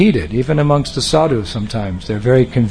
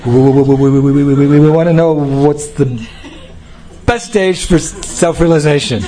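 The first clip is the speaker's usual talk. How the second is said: stammering fright. Retold or imitated.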